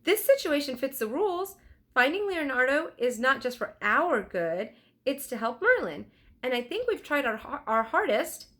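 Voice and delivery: put-on high, earnest girl's voice; lightly voiced eager girl reminding her brother; young girl Annie. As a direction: Annie insisting to Jack, earnest. Annie's voice in story.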